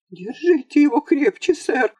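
ordinary delivery

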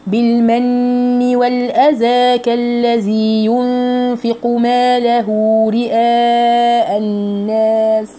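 slow chanted phrase, drawn-out vowels; tajweed recitation. Shown as a demonstration. Teacher models the phrase for students, slow chanting. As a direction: recite slowly, each syllable clear.

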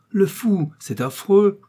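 high-pitched, scandalised exclamation; shocked outcry. A narrator's reading. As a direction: gasp it out in shocked horror. (s'exclamer, scandalisée et aiguë)

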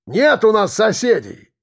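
yelling through door. A narrator's reading.

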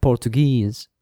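"Portuguese" with the last syllable stressed; final-syllable stress. Shown as a demonstration. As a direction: lean on the final "guese" in "Portuguese". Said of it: "falls on the final syllable".

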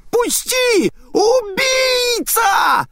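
very high screaming cry, the last word dragged out very slowly; crying shriek. Acted. Spirit shrieks at Naita while restrained by her mother. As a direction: wail murderer with all your hate.

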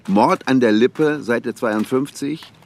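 teasing a colleague by reading his crime novel aloud, mildly hammed-up; mock reading aloud. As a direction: read it out like a lightly mocking book announcement.

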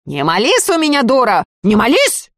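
put-on a menacing shout at the girl; stern shout. A narrator's reading. Sorcerer Savka threatens the praying girl, stern shout. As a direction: bark it like a threat. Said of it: "грозно прикрикнул".

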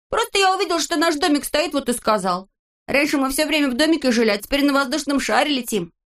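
put-on high, fast boyish explaining; Neznaika's voice. A narrator's reading. Neznaika explaining to the grumbler, high and fast. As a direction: justify yourself eagerly.

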